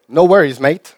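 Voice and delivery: No worries said in Australian English, mate lifted; light Aussie No worries, mate; Australian accent. Retold or imitated. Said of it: "die Australier, die Neuseeländer".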